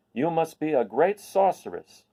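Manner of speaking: Boq in awe. Acted. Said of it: "he said".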